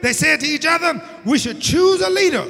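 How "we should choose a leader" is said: high ringing shout of "We should choose a leader"; rally them with a shout; shouted quote. Retold or imitated. Preacher voicing Israelites choosing a leader, shouting high.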